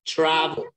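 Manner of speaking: "Travel" with emphasis on TRA; stress on first syllable. Shown as a demonstration. Teacher confirming where the emphasis goes, first syllable stressed. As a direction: punch TRA, let the end of "Travel" fall. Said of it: "there is where you make the emphasis".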